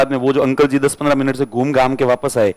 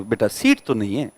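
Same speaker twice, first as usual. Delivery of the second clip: humble reply; 3 semitones lower than usual. Retold or imitated. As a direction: let him down kindly and humbly. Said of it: "बहुत ही humble तरीके से जवाब दिया".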